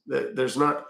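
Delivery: slow, measured London accent. Shown as a demonstration. Streamer answering a request for one, London accent. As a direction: put on a London accent, softening at the end. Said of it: "To a London accent".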